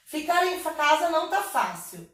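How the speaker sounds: a verse recited to bring out its beat; rhythmic verse reading. Shown as a demonstration. Teacher showing students the poem's rhythm, rhythmic reading. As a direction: read the line in rhythm. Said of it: "A gente lê com ritmo".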